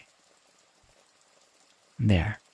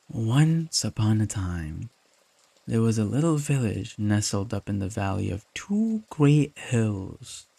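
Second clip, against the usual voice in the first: bedtime story narration. Acted. Telling a partner a story to fall asleep, gentle narration. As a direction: read it like a bedtime tale.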